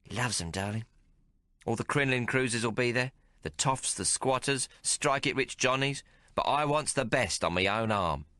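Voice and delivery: a streetwise barmaid teasing the hero; Maggie's voice. Acted. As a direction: play her worldly and mocking. Maggie on the fights.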